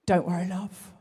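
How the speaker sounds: reading Dave's email. Retold or imitated. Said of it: "it just said this".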